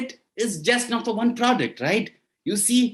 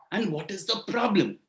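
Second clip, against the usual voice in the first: calm quiet king; 6 dB quieter than usual. Acted. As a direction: ask it softly, like a composed ruler. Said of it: "said Vikramaditya".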